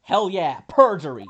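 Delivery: loud, gleeful shout; triumphant. Acted. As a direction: yell it like a win. Triumphant accusation in court.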